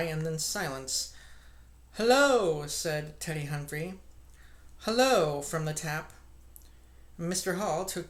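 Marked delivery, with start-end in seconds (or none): 1.9-2.7 loud, high "Hello!" of alarm; startled call. Acted. Villager startled by the thud, calling out loud. 4.8-5.4 loud, high call from the tap room; called reply. Acted. Drinker in the tap answering the cry, loud.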